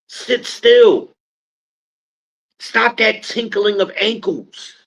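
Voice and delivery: high, sharp commanding scold; barking orders to settle them down; bossy commands. Retold or imitated. Ordering the chaotic women to stand still, high and commanding.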